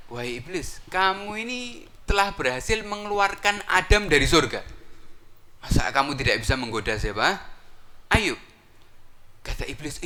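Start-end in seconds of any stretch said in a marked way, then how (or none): 0.1-8.4 high, loud goading; goading followers. Acted. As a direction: egg him on with a high, loud voice. Followers remind iblis of Adam.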